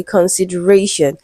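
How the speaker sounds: "consideration" with the weight just before the final "shun"; stress before "shun". Shown as a demonstration. Teacher showing a stress rule, "consideration" stressed on "ra". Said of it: "stressed on the syllable before shun".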